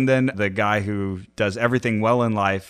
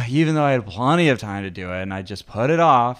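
sighing, self-pitying complaint with a sigh; victim voice. Shown as a demonstration. Class exercise demo of the victim voice, a sighing mild whine. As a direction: moan it out like a put-upon victim. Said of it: "you're supposed to say it like this".

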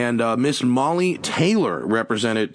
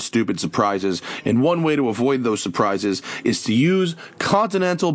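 upbeat sponsor read, punchy. Acted. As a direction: sell the belts like a radio spot. Host reads a sponsor ad.

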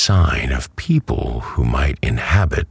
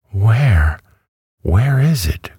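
high, eager, excited cry; 9 semitones higher, 4 dB louder than usual. A narrator's reading. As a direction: leap up with excitement as you ask. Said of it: "jumping up in great excitement".

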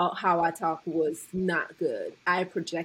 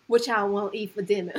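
mock attempt at a New Orleans accent; put-on Southern accent. Speaker imitating him asking about dinner, put-on Southern accent. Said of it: "like, put it on".

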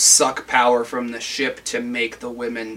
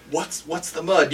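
softer, halting mock bewilderment; puzzled question; 3 semitones higher, 5 dB quieter than usual. Kirk asking the miners what they mean, puzzled and quieter. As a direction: stumble softly into "the mud" as a baffled question. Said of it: "And he's like".

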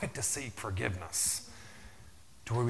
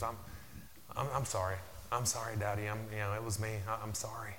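tearful apology; 7 dB quieter, faster than usual. Retold or imitated. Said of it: "little tear starts rolling down".

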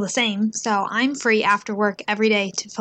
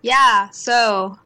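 mock verbal tic; 4 dB louder than usual. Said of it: "You also end your sentences with".

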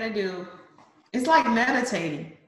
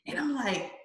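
ordinary talk

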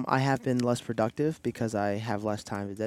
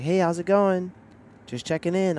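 bright, higher, louder mock wife; imitating wife; 6 semitones higher, 5 dB louder than usual. Husband quoting his wife's phone check-in in a higher, louder mock voice. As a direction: play the cheery check-in call, pitched up. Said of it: "Jen was like".

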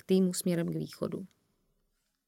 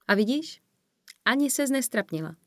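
higher, lilting reassurance; encouraging; 5 semitones higher than usual. A narrator's reading. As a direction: cheer up a dazed friend. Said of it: "Snažila jsem se jí povzbudit". (povzbudivě)

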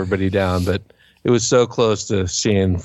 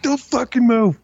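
retold frozen plea; 13 semitones higher, slower than usual. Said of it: "I'm like".

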